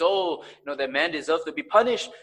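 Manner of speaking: retold outburst of righteous indignation. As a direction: voice David's indignation, lightly acted. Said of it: "responded with indignation".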